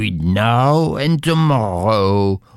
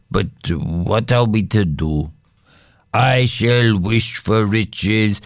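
lightly voiced husband. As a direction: soothe her, sorry. Husband voiced in read story.

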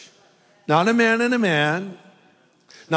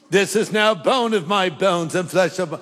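mock English accent, lightly put on; playful attempt at an English accent. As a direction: recite it in a hammed-up English accent. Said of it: "said it with an English accent".

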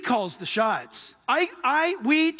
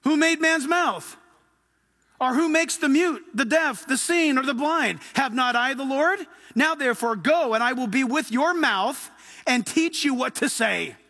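voice of God. Acted. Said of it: "This is how God talks".

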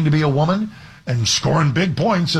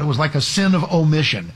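ordinary delivery

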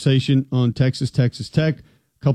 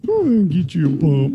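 O-line coach impression; 4 semitones higher than usual. Co-host urges imaginary linemen, Southern coach voice. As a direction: egg them on like a drill coach. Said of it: "impersonate offensive line coaches".

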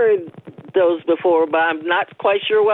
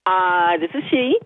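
sound-powered phone; 4 semitones lower than usual. Real, not acted. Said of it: "you're a close phone talker".

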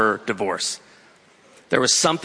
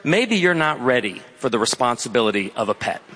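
smug; 3 semitones lower than usual. Retold or imitated. Sales associate doubts a dad is ready for a pet, smug. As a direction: imitate a condescending sales associate. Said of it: "This smug sales associate".

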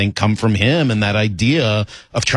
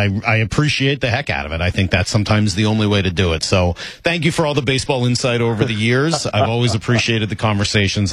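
normal talking voice

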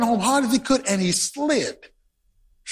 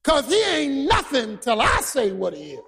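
umpire shouting; 4 semitones higher than usual. Retold or imitated. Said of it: "and said".

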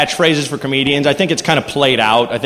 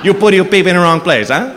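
put-on Mario accent; slower than usual. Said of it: "with that accent".

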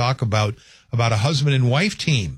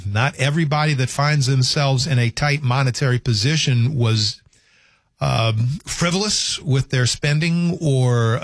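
slower, deliberate emphasis; very slowly. Real, not acted. Radio host repeating his point to listeners, very slowly. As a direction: spell it out slowly and carefully. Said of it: "I'll say it very slowly".

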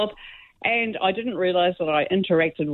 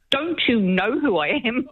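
slow, higher, imitated indignant demand; mock self-important exasperation; retold frustration; 5 semitones higher, slower than usual. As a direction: draw it out like a frustrated big shot. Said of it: "he got so frustrated with me".

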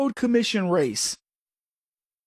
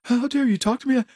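mock offended; 4 semitones higher than usual. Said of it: "tell people".

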